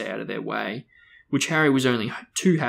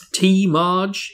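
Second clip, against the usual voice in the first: jovial host; 7 semitones higher, 7 dB louder than usual. A narrator's reading. Vernon offers tea jovially.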